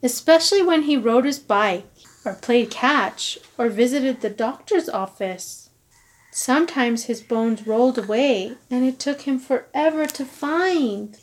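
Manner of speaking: lively storybook narration; reading to children. A narrator's reading. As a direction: read it like a bedtime story. Reading picture book aloud.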